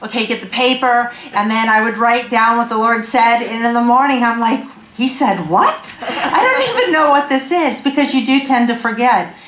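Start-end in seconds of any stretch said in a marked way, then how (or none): 5.0-7.8 puzzled at own notes, lifting higher; mock bafflement. Speaker puzzling over night-time notes, mock bafflement. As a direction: act out confused disbelief.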